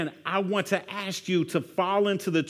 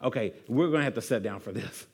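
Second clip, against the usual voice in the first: low, soft, confiding; mock serious reply; 9 semitones lower, 6 dB quieter, faster than usual. Pastor acting a friend who overshares, low and hushed. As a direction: lean in like it's heavy news. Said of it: "actually stop and say".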